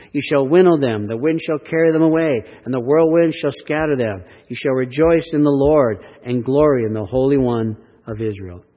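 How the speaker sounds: loud, ringing proclamation of the verse; preached scripture. Acted. Preacher proclaims Isaiah's promise to the congregation, ringing and strong. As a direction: proclaim it like God speaking to the hills.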